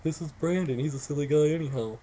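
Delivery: lightly voiced grandma humoring him; a hint of an indulgent grandma; grandma going along. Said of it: "sounded like my grandma was just going along".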